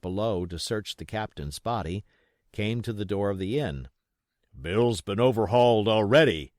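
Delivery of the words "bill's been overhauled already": louder gruff report; a pirate reporting to the blind man, louder. Acted. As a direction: report it flatly. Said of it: "said he".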